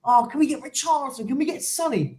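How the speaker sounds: lightly voiced children putting in a request; imitated kids' request. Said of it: "they go".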